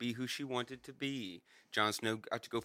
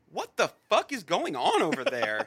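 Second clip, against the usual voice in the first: laughing it out, pitched high and loud; laughing disbelief; 10 semitones higher, 5 dB louder than usual. Real, not acted. Friend laughing at the absurd ending, loud and high. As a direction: cackle through the question in disbelief.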